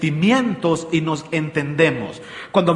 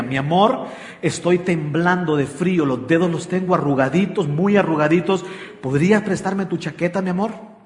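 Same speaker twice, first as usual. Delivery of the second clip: tender request. Retold or imitated. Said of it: "la firmeza de carácter para poder expresarle a ella".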